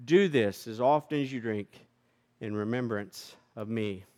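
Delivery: solemn eucharistic prayer; liturgical prayer. Acted. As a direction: intone the communion liturgy. Pastor chants the eucharistic prayer.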